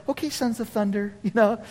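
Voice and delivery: lightly mock their big talk. Jesus answering James and John's fire request, mocking. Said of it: "Jesus even starts mocking them".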